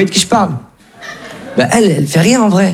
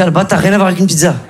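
dépit rapide; faster than usual. Retold or imitated. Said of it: "Je dis".

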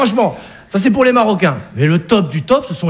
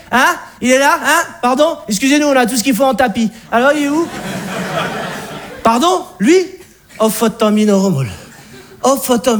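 Alsatian father; 2 semitones higher than usual. Acted. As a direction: boom out a welcome to his daughter, then patronise the fiancé. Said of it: "Le père alsacien nous aperçoit". (beau-père alsacien bourru, voix haute et forte, condescendant)

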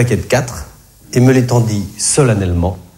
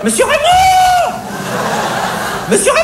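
cashier shrieking. Acted. Cashier calling her boss across the shop, shrieking. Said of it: "hurla-t-elle".

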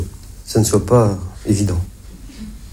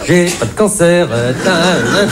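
throat cancer voice; 6 semitones higher, slower than usual. Shown as a demonstration. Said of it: "c'est pas évident, hein, d'imiter l'accent cancéreux".

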